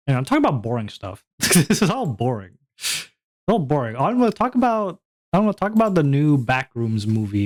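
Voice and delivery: light mock whining as bored viewers; complaining viewers. Streamer voicing bored viewers as their proxy, mock complaint. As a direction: lightly play a bored, impatient audience. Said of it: "This is me acting as you guys".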